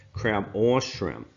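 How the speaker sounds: slow, with "or" drawn out and punched; stress on or. Real, not acted. Teacher correcting an and/or slip, stress on "or". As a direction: lean hard and long on "or".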